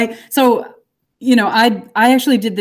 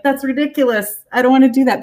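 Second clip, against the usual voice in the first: scoffing; 6 semitones higher than usual. Retold or imitated. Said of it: "you're like".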